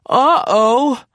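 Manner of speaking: high, bright uh-oh of alarm; storybook uh-oh. Acted. Narrator warning kids of car trouble, high surprised. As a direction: swoop up as trouble hits.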